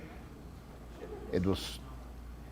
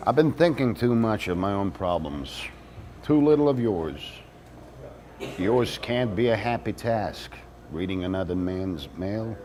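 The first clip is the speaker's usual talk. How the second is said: earnest letter read aloud; 2 semitones higher than usual. Acted. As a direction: win the snoop over, reading aloud. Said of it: "So this time I wrote".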